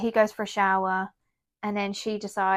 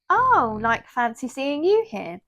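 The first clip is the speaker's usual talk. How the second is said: higher-pitched retold chance-meeting hello; mock surprised greeting; 4 semitones higher, slower than usual. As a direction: imitate an acquaintance's feigned surprise. Acquaintance greets her on the beach.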